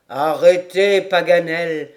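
ordinary delivery

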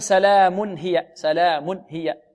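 "سلام هي" with a break after "mun"; cut-short tanween. Shown as a demonstration. Teacher shows what not to say, clipped n. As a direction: chop the n of "سلام" short, gap before "هي". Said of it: "ولا نقول".

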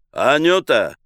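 Myshlaevsky calling Anyuta loudly and briskly. Acted. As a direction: call the maid loudly and briskly. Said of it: "бодро, выздоровев от бронхита, вскричал".

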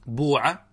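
بوع said as buuʿa with a pure u; damma reading. Shown as a demonstration. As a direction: voice بوع with a rounded back vowel. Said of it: "جواز الضم".

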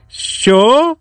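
sharp high outraged yell; shouted what. A narrator's reading. Innkeeper yelling at Petro, high outraged shout. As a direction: bark it up high, caught off guard. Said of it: "закричав корчмар".

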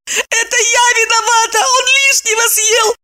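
high crying woman's shout; howling sob. A narrator's reading. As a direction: defend herself while wailing. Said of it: "не прекращая рёва".

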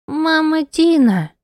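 put-on high, slow little girl's plea; child crying. Little girl reaching for her, crying. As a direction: call out like a crying small child.

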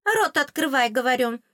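high squeaky order; a tiny fairy demanding obedience; high fairy command; bossy fairy. A narrator's reading.

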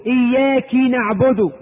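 slow recitation, إياك ending in "-ki", "iyyaki"; kasra on the kaf. Shown as a demonstration. Teacher showing an imam's error, إياك said "iyyaki". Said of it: "بكسر الكاف".

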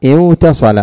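اوتصل with a clear w sound before the t; original form. Shown as a demonstration. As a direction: say the root form اوتصل, keeping the و. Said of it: "فكان أصله".

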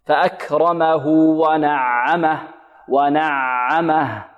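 "ونعمه" recited slowly, ع neither choked nor slack; measured Quran recitation, balanced ع in "ونعمه"; medium ayn. Shown as a demonstration. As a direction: let sound flow moderately through the ع of "ونعمه". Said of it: "يخرج الصوت معها خروجا متوسطا".

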